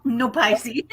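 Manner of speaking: repeating it through a laugh. Retold or imitated. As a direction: echo it while laughing. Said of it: "He goes".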